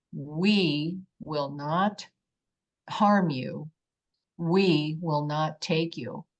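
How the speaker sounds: slow, deliberate, lightly voiced entity; measured alien being. Alien being addresses the frightened woman, slow and deliberate. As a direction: spell it out slowly, word by word. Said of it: "And he says to me".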